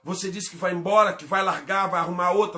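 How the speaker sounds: insistent, piling-up preacher's list; impassioned preaching. Real, not acted. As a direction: drive the accusations home without letting up. Preaches against angry threats. (pregação enfática)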